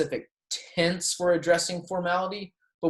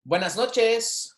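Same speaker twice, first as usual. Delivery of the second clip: Buenas noches slow and raised; slow, higher model; 8 semitones higher, slower than usual. Shown as a demonstration. Teacher to class, slow raised buenas noches. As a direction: lift and slow the phrase. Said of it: "saying these with me".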